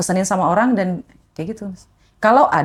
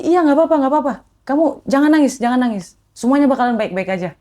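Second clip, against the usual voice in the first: higher, soothing reassurance; lightly voiced kind bapak consoling a girl; comforting stranger; 5 semitones higher than usual. Kind man soothes crying courier, gently reassuring. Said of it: "katanya gitu".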